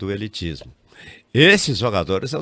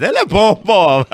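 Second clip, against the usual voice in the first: louder, insistent; emphatic; 8 semitones higher, 8 dB louder than usual. Real, not acted. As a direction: push the praise hard. Emphatic defense of Neymar.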